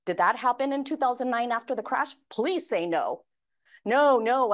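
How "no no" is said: loud, drawn "No, no" for the crowd; emphatic no no. Acted. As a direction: shake your head with your voice. Answering her own question to audience.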